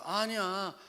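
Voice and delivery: loud, high, drawn-out denial; imitating a dad waving worries away; acted emphatic reassurance. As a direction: protest loudly to put a child at ease. Father reassures puzzled child.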